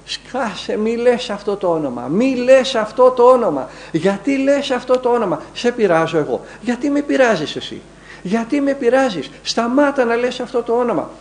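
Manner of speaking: high, strained demon voice, pleading and angry; demon's howling voice. Retold or imitated. Demon inside the possessed monk protests the prayer, high and strained. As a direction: cry out as the demon tormented by the holy name. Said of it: "να ουρλιάζει από μέσα μια φωνή".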